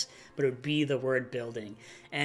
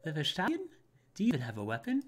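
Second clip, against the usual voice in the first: archer voice; 2 semitones higher, 3 dB quieter, faster than usual. Acted. Archer voice question.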